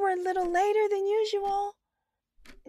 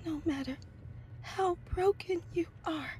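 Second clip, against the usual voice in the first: much softer, hesitant voice; shy and soft; 3 semitones lower, 5 dB quieter than usual. Acted. Sharon answers the stranger shyly, much softer. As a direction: answer timidly, near tears.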